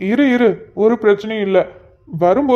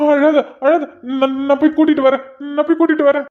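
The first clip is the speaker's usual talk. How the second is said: higher-pitched, stammering reassurance; flustered; 3 semitones higher than usual. Acted. Husband promises crying wife he will fetch help, flustered. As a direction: reassure her in a panic.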